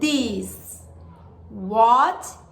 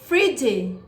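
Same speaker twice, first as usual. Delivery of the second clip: language lesson narrator; 3 semitones lower than usual. Shown as a demonstration. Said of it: "Now listen and repeat".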